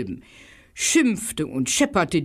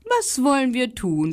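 higher little dog voice; little dog asking; 7 semitones higher than usual. Acted. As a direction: ask like an eager little dog. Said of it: "fragte er".

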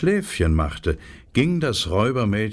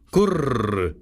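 pigeon coo. Acted. Wood pigeons cooing to Gerda from their perch, cooing. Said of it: "Da sagten die Waldtauben".

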